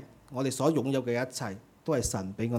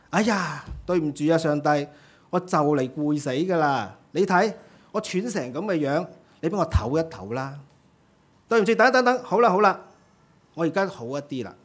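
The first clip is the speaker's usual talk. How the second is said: a tired ant puffing through an apology to God; mildly gasping, catching its breath between phrases; lightly voiced ant, winded and pleading; 3 semitones higher, 4 dB louder than usual.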